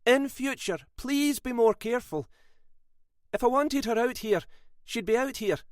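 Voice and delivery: high, sharp scolding woman; old lady snapping at the detective. A narrator's reading. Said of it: "Sylvia snapped at him".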